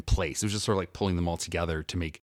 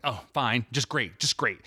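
mock curt anger; 3 semitones higher than usual. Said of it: "I'm cooking them angrily".

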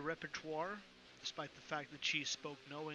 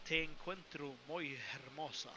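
put-on Spanish in a Swedish accent. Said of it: "but in a Swedish accent".

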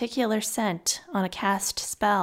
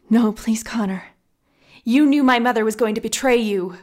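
pleading; 2 semitones higher, 6 dB louder than usual. A narrator's reading. She pleads against his accusation.

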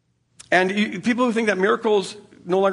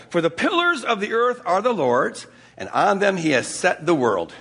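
scripture reading; slower than usual. Shown as a demonstration. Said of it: "we read many times in the Bible".

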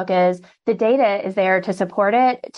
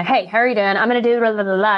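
rushed spiel; faster than usual. Shown as a demonstration. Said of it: "and a".

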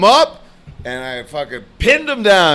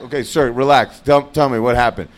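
calming cop; 5 semitones lower than usual. Retold or imitated. Cop calms the agitated caller.

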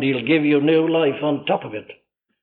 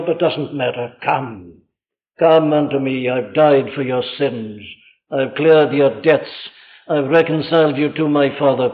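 gently pleading pulpit voice; subdued, consoling sermon appeal; tender preaching. Acted. Voices Christ's tender invitation.

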